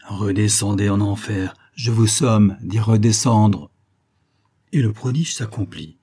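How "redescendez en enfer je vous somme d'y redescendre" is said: slow, louder final command; the scholar summoning the demon back to hell; commanding order. Acted. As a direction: drive the demon down with every word.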